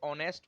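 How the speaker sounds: "ऑनेस्ट" starting on an open "aw", no h; honest without h. Shown as a demonstration. Teacher tells students "ऑनेस्ट" has silent h. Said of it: "हॉनेस्ट नहीं पढ़ते".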